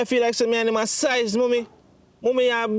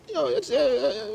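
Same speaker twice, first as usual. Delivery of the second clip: choked up. Acted. Son upset about stolen money.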